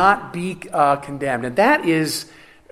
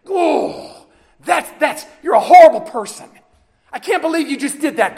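mock scolding God; 4 semitones higher than usual.

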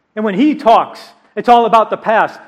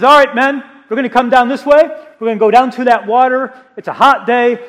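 raised, higher voice rallying the men; calling out to troops; 4 semitones higher, 4 dB louder, faster than usual. Acted. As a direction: call it out to the whole army, louder and higher. Gideon calls out to his men.

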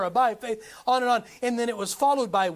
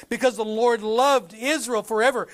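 "loved" hit firmly and louder in scripture; emphatic statement; 5 dB louder than usual. Acted. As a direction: declare it with weight on "loved". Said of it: "sounds like a pretty emphatic statement".

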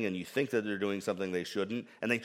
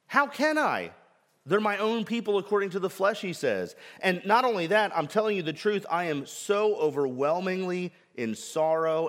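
grieved plea; 4 semitones higher than usual. Acted. Voicing Paul's grief and plea.

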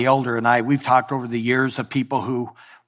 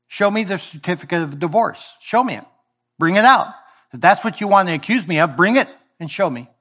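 demanding challenge; 4 semitones higher than usual. Retold or imitated. God challenging Israel, insistent raised demand. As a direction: dare them to produce it.

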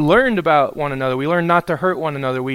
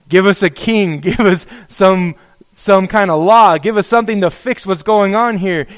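insistent, louder mock plea; mock pleading demand; 3 semitones higher, 5 dB louder than usual. Prophet begging God to fix things, demanding. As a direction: plead loudly, with some laughter.

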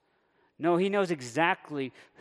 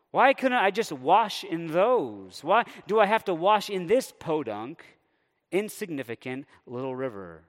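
scornful Naaman; 3 semitones higher, 4 dB louder than usual. Retold or imitated. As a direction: sneer at the little river, dragging it out. Preacher voicing Naaman's scornful complaint.

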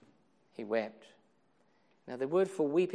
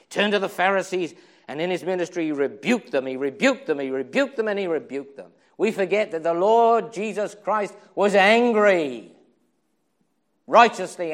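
loud, driving, punching each repeat; rising pulpit fervour; fervent preaching; 4 semitones higher, 11 dB louder than usual. Real, not acted. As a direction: thunder it out.

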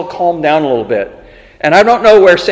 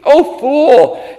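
self-reproach; 6 semitones higher than usual. Acted. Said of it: "He calls himself a fool".

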